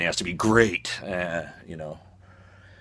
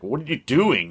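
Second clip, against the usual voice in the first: a touch higher, mildly baffled question; half-raised, confused ask; puzzled Brody; 7 semitones higher than usual. Retold or imitated. Brody asking the shark with mild surprise. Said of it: "And he's like".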